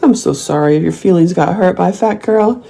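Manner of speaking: put-on baby-talk a hurt troll; mock sympathy. Teasing a troll with high fake pity. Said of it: "I'll be like".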